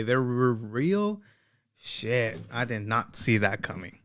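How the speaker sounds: slow, dry sarcastic disbelief; deadpan fake shock.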